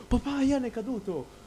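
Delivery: grido al padre imitato, acuto e forte; richiamo allarmato. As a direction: call out to dad in a high, loud retold alarm. (richiamo allarmato, rifatto nel racconto)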